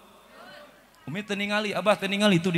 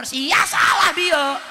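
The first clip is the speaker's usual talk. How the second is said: high, slow indignant shout; scolding shout; 11 semitones higher, 4 dB louder, much slower than usual. Retold or imitated. Old Haji shouting at the singer in the mosque, mock anger. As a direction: tell him off as the old Haji.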